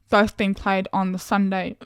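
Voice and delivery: talking through hiccups; interrupted by hiccups. Real, not acted. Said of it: "sorry, I just got the hiccups".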